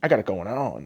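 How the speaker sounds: slow, mock-sultry boast; lightly voiced smug self-praise; mocking fat people. Mocking people who call themselves sexy, slow smug voice. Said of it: "those fat people that tell you".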